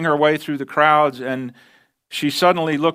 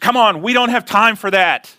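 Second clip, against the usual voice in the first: put-on cross, angry scolding, hurrying, pitched up; 6 semitones higher, 4 dB louder than usual. Retelling a mother pulling her son away in a mall: imitating an angry mother. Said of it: "she said to him in an angry voice".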